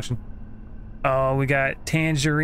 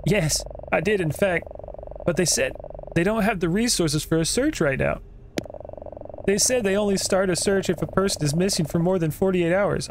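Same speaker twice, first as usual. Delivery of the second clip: lightly voiced higher-pitched customer; searching brother; 5 semitones higher than usual. Brother telling the clerk about the police, lightly voiced higher role.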